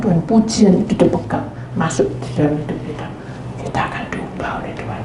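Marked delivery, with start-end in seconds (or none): 1.8-5.0 whisper. Real, not acted. Awed statement about God's power.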